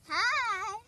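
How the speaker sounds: very loud, proud boast to camera; loud team introduction. Real, not acted. Player presents the Stars to viewers, loud boasting. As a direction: belt out the team pitch.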